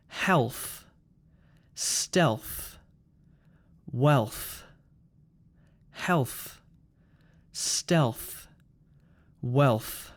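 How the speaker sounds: "Health", "Stealth", "Wealth", each ending in a breath burst; explosive final th. Shown as a demonstration. Teacher repeats the list for learners, explosive th on "Health", "Stealth", "Wealth". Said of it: "explosive th sound at the end".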